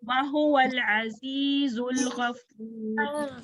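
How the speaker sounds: slow recitation with held long vowels; measured Quran recitation. Shown as a demonstration. Teacher models the verse's end, slow tajweed recitation.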